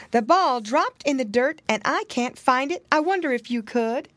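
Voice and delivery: a touch of a kindly muskrat asking a favor. A narrator's reading. Muskrat asks for help.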